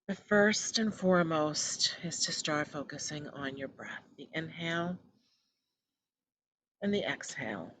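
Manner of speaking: measured guiding voice with long pauses; guided meditation. Acted. Host settling listeners into breath focus, calm guided meditation. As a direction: ease them gently into stillness.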